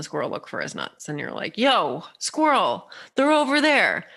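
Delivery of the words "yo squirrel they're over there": calling out. Acted. Bird on a branch calling to a squirrel, calling out. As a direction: call down to someone below, stretched out.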